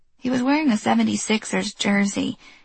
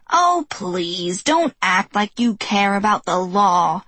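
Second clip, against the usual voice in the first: scoffing; slower than usual. Acted. Old neighbor scoffing.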